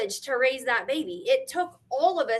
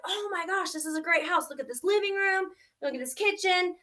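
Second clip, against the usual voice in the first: mock-gushing excitement; 5 semitones higher than usual. House hunter exploring the wreck, retold excited gushing. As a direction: lightly gush over each new discovery.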